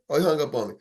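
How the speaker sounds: normal talking voice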